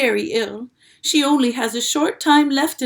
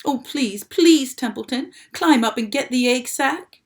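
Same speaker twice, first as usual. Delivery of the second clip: loud, higher desperate plea; urgent pleading; 5 semitones higher, 6 dB louder than usual. A narrator's reading. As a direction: beg him to hurry.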